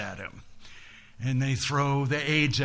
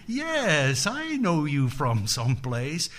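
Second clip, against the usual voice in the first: triumphant recognition. Acted. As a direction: land the answer like a verdict. Buddha answers his own question.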